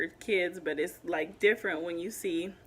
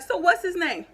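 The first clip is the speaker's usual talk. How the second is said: loud, higher challenge; angry demand; 8 semitones higher, 7 dB louder than usual. Retold or imitated. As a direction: push her to name him, loud and high. Demanding the woman name the child.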